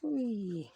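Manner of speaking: soft falling "whee"; playful whee. Real, not acted. Crafter amusing herself at the table, playful whee. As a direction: let out a little sliding whee.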